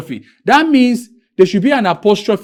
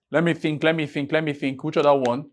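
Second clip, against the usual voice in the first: thinking aloud; 2 semitones lower, 7 dB quieter than usual. Real, not acted. Teacher searching for another example, quietly thinking aloud. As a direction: mull it over under the voice.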